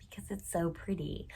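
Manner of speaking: very soft, whispered adoration; admiring whisper. Real, not acted. Reviewer won't part with a pretty book, admiring whisper.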